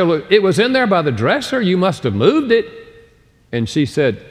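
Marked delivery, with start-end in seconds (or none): 0.0-2.7 accusing. Retold or imitated. Accusing wife over briefcase.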